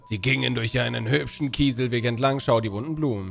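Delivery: lightly performed bedtime-story reading; sing-song storybook narration; storybook read-aloud. Acted. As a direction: read it out like a children's tale.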